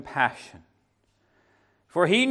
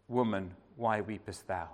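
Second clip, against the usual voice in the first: tender; 6 semitones lower, 9 dB quieter than usual. Pretend. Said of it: "he would have said it tenderly".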